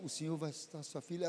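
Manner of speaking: a quase sussurrar, muito mais suave; bem baixinho. Retold or imitated. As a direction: diz a frase bem baixinho, para ninguém ouvir. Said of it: "mesmo bem baixinho". (dito bem baixinho, quase em segredo)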